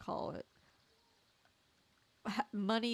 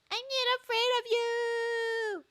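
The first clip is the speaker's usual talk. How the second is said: put-on high, loud defiant young hero; defiant boy hero; 5 dB louder than usual. Young hero defying the villain, high loud shout.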